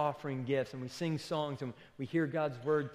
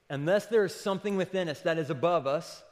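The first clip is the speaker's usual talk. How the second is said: louder, punchy paraphrase driving the point; emphatic restatement; 3 semitones higher, 6 dB louder than usual. Shown as a demonstration. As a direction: hit it home louder, stress on "there". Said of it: "Okay, so".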